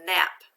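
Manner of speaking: "Nap" as one isolated, firm syllable; syllable read-out. Shown as a demonstration. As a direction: sound out "Nap" loudly on its own. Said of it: "let's read this first syllable".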